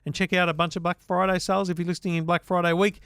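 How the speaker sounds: upbeat podcast ad read for the sponsor; host-read advert. Acted.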